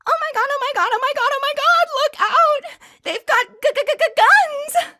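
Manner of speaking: a frightened woman screaming as gunmen burst in; stammering terrified scream; panicked screaming. Acted. Bystander panics at a robbery.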